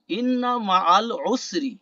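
slow, careful Arabic recitation of ইন্না মাআল উসরি; careful Quranic Arabic. Shown as a demonstration. Teacher reciting the verse slowly for students. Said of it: "দেখেন আইন উচ্চারণ করতে".

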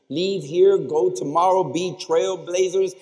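rally the graduates; rousing call. Real, not acted.

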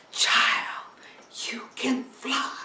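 unvoiced hushed urging; whispered promise to the child. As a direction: breathe it to her like a secret. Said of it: "And he said".

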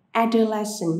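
adolescent với trọng âm rơi vào "do"; nhấn mạnh âm thứ hai của adolescent; stress on the second syllable. Shown as a demonstration. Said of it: "trọng âm vào âm thứ hai". (nhấn trọng âm âm thứ hai)

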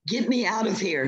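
backing away from a monster; frightened. Acted. Eccles panics before T-rex.

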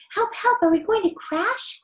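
crying in fright. Acted. Children on falling boat swings, high frightened cries. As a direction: shriek for help as the swing falls. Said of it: "cried the children in fright".

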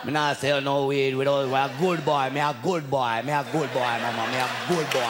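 put-on light Jamaican accent, pleading innocence; Jamaican denial. The Jamaican guy denying selling weed to grandma, in a light Jamaican accent. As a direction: protest like a boy caught out, in a light Jamaican lilt. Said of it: "Jamaica be like in denial".

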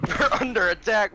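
loud, high alarmed shout. Real, not acted. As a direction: yell it over gunfire. Firefight breaks out in game.

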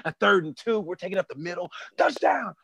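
football play call. Acted. Comic likens grinders to football linemen, mock play call. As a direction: call the short-yardage play through to the score.

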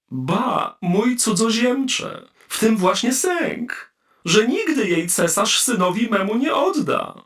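wyżej i powoli, królewskie westchnienie; król z rezygnacją kręci głową; stary król. Acted. King answers Trurl. (król odpowiada cudzoziemcowi wyżej, powoli i z rezygnacją)

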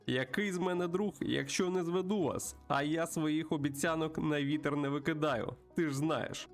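put-on high, lively voice greeting an old pal; chatty old friend. Plays a friendly bird character.

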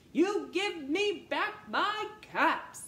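loud slow demand; angry peddler demanding his caps. Acted. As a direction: make him cross and firm. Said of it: "made the peddler angry".

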